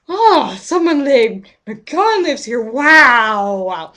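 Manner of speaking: mocking David. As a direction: mimic a slow, dopey reaction. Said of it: "Or are you just like".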